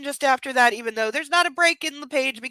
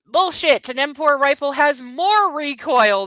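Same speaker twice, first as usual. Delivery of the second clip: indignant outburst; 3 semitones higher, 6 dB louder than usual. Real, not acted. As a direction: snap it out in disbelief. Calling out the book's error.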